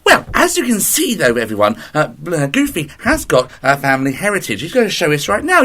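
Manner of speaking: Blue Peter presenter. Pretend. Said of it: "as if it's Blue Peter".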